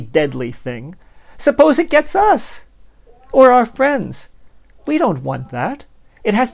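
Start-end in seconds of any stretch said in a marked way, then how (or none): 1.4-4.3 squeaked much higher and louder, drawn out; a hammed-up panicked squeal; mock fright. Plotter imagines the virus hitting his own friends, mock panicked squeal.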